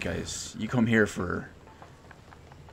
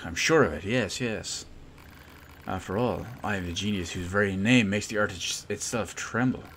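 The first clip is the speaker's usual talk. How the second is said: lightly voiced pompous genius inventor, louder than own chat; self-important inventor; 5 dB louder than usual. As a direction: boast like a grand, eccentric inventor.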